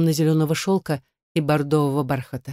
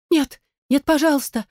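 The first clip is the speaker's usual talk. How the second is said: high, louder pleading cry; frightened plea; 10 semitones higher, 3 dB louder than usual. A narrator's reading. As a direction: beg her not to, in panic. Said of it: "воскликнула Милред". (испуганно, высоко, умоляюще)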